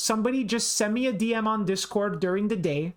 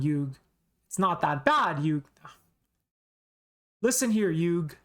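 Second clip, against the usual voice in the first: lightly voiced older Joey, testing it out; tentative Joey impression, restarting as you go; deep-voiced Joey attempt. Shown as a demonstration. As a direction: have a halting go at a deeper Joey. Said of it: "can I do Joey with a deep voice".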